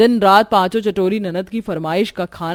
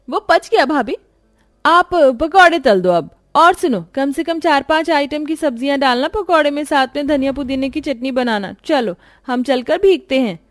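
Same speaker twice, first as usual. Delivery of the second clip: higher, demanding voice; bossy nanad; 7 semitones higher than usual. Acted. Nanad bossing bhabhi about the pakoras, high and demanding. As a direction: order her about, leaning on each request.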